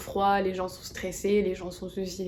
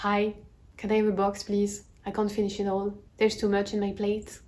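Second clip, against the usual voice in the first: American customer. Retold or imitated. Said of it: "on demande une boîte".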